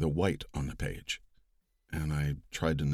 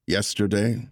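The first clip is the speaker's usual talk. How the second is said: louder, stately oratory, no impression; Roosevelt's cadence; 3 semitones higher, 5 dB louder than usual. Narrator reading Roosevelt's address to Congress, louder stately cadence. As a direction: give it presidential weight without mimicry. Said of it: "I embraced the cadence of it without trying to do the voice".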